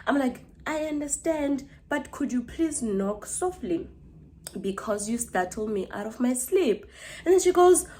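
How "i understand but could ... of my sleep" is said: slow, softer polite plea; patient. Retold or imitated. Woken sleeper asking neighbour to knock softly, patient. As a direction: gently reason with someone, drawing words out.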